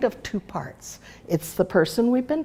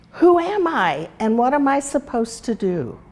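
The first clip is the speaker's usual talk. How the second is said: lightly voiced, higher, searching question; wondering little horse; 4 semitones higher than usual. Flutterby asking herself who she is, lightly higher wondering. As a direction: ask it like a lost newborn creature, up high.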